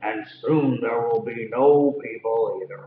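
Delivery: gentle hint of a menacing giant. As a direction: rumble it out as a big looming giant. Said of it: "said the giant".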